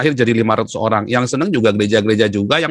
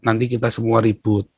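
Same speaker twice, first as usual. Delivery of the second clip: lightly voiced cautioning father; mildly calm someone down, imitating a father; nasihat ayah; 2 semitones lower than usual. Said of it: "ayah saya selalu bilang apa". (menirukan ayah menasihati dengan tenang)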